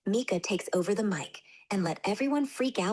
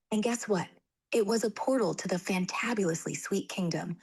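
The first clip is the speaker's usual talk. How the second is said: lively bedtime storytelling voice; story narration. Acted. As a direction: read it like a children's storybook. AI reads children's story.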